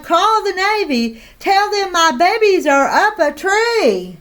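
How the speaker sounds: high, panicked pleading; frantic cry. Acted. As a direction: beg for her babies. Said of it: "she cried".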